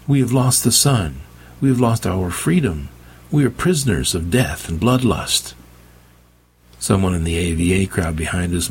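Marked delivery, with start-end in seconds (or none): 0.1-5.5 impassioned. Acted. Meg pleading with the undead.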